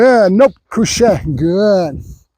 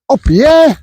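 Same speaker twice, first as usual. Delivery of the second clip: high, louder burst of praise; excited cheer; 7 semitones higher, 3 dB louder than usual. Real, not acted. Trainer cheering his dog on, high and excited. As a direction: celebrate the dog like he just won.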